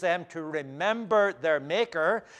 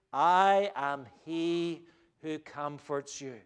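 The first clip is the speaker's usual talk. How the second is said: slow, calm reassurance; slower than usual. Acted. God's gentle answer, voiced slowly.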